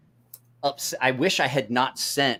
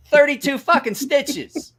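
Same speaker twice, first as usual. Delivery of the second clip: drawn-out, high, louder mock complaint; retold outrage; 13 semitones higher, 5 dB louder, slower than usual. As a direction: stretch it out in high-pitched indignation. Retold injured friend complains of stitches.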